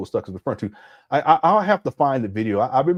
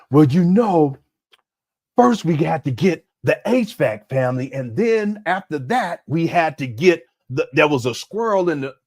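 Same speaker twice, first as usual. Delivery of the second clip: mocking Umar's rambling; 4 dB louder than usual. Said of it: "we ain't talking about all of this".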